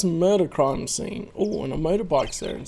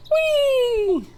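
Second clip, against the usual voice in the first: much higher, sustained gleeful whee; delighted squeal. Acted. Girl cheering as they go in, high and gleeful.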